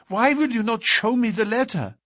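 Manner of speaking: put-on demanding young woman's voice; Etty. A narrator's reading. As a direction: insist on seeing it.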